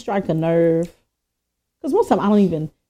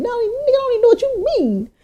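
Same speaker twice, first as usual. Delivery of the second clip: mock confusion.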